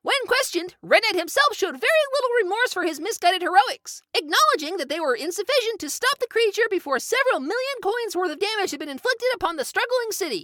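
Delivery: reading a newspaper article aloud; formal news report delivery. Acted.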